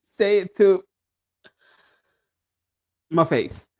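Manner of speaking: stop-and-start politician impression, long dead pauses; mock solemn speech doled out a word at a time; Hakeem Jeffries. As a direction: hang a long silence after each phrase. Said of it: "in your Hakeem voice".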